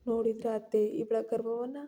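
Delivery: spitting anger. Acted. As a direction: sneer at her, rising to an indignant snap. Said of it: "Shruti ಕಿಡಿಕಾರಿದ್ಲು".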